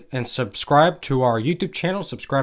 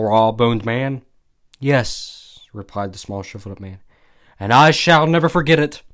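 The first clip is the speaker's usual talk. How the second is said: emphatic, louder storyteller reading; story narration; 3 dB louder than usual. A narrator's reading. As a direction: read the old war tale out with relish. Reads a story aloud.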